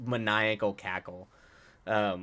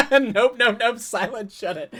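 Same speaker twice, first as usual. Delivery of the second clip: laughing protest; 11 semitones higher, 7 dB louder than usual. Real, not acted. Laughing refusal to chat.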